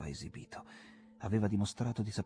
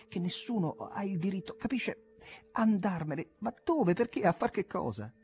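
much higher, louder impassioned outburst; joy, pride and dismay; 10 semitones higher, 4 dB louder than usual. A narrator's reading. Jim to his friend, impassioned high and loud. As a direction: pour it all out, near desperate. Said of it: "gioia e orgoglio miste quasi a sgomento".

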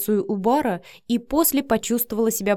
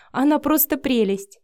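higher-pitched, delighted exclamation; amazed admiration; 6 semitones higher than usual. A narrator's reading. Vika charmed by Matvey's daughter, marvelling. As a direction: gush in wonder at the girl. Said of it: "ахнула Вика".

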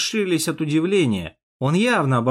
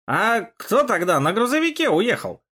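higher, bewildered question; stunned; 7 semitones higher than usual. A narrator's reading. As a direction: ask it dumbfounded. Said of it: "выдохнул ошарашенный Яшка". (ошарашенный вопрос)

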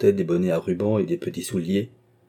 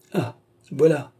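slow, high, amused Ah voilà with a chuckle; a light chuckling reply; laughing; 7 semitones higher than usual. A narrator's reading. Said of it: "répondit-il en riant".

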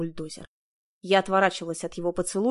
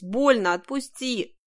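pleading in pain; 4 semitones higher, slower than usual. A narrator's reading. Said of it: "взмолилась".

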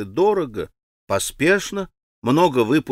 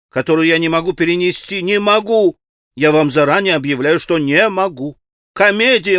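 a lightly voiced anxious society lady, raised; fretful lady; 4 semitones higher, 4 dB louder than usual. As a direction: wring your hands as a fretting mother. Khokhlakova voiced, hysterical.

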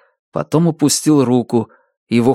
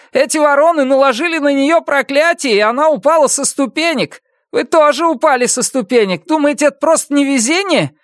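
angry grief. A narrator's reading. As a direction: lash out in grief. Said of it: "Он был зол, он горевал". (зло и горько)

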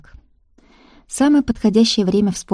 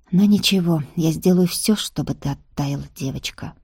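tender promise. Acted. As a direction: promise it gently, letting it fade. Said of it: "Пообещал так нежно и многозначительно".

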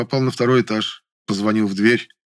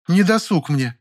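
юлит; 9 semitones higher, slower than usual. A narrator's reading. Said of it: "заюлила".

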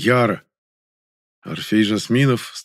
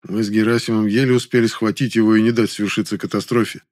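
usual speaking voice

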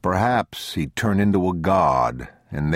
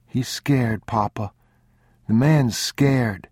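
put-on high child's voice; pleading boy; 6 semitones higher, slower than usual. A narrator's reading. Boy pleading for the scared old man, high child voice. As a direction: plead gently with Papa.

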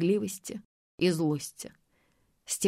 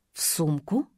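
surprised; 4 semitones lower than usual. A narrator's reading. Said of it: "всё-таки не выдержала я".

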